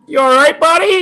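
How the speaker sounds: high, loud worried check-in; concerned call. Retold or imitated. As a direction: call out to a fallen kid. Concerned call to fallen kid.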